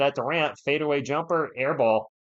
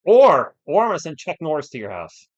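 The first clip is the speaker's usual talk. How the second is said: mock threat; 2 semitones higher, 11 dB louder than usual. Real, not acted. Joking threat to chat.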